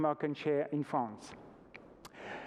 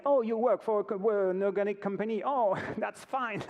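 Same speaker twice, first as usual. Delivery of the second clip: mock consumer voice; 4 semitones higher than usual. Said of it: "they say".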